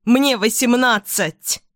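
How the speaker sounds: strained shout. Acted. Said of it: "Срываю голос".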